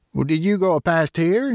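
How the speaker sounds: high, amazed question; astonished. A narrator's reading. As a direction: sound genuinely astonished.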